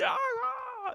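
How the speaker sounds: high, slow fake sob-shout; hammed-up tantrum wail; mock crying wail. Acting out his tantrum for his co-host, a fake high sobbing wail. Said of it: "I started, like, yelling".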